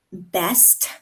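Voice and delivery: Best with the final t sounded; careful, complete Best; full final consonant. Shown as a demonstration. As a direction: finish Best on a crisp t. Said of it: "drop off the last letter".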